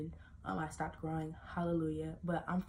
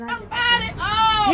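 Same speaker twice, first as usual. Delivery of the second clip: loud aside; 17 dB louder, slower than usual. Acted. Sudden loud high interjection.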